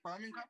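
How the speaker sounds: BIRMINGHAM tested out, ending rising; local pronunciation. Shown as a demonstration. Local puzzling over their own city's name, testing pronunciation. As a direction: try "Birmingham" with the G kept, unsure. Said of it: "how the fuck we say it".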